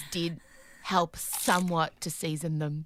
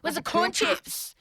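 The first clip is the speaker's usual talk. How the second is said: demanding; 8 semitones higher, 3 dB louder than usual. Retold or imitated. Demanding at daughter's door.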